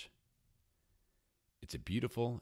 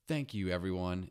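calling out; 3 semitones higher, 5 dB louder than usual. Acted. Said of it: "it calls out".

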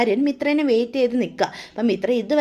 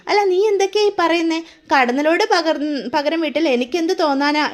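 higher, baffled mother's question, lightly voiced; a puzzled mother asking much higher than the narration; 5 semitones higher than usual. Bewildered mother asks her daughter-in-law, higher and mock-surprised. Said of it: "Indiramma ചോദിക്കും".

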